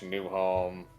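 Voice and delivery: ordinary talk, nothing marked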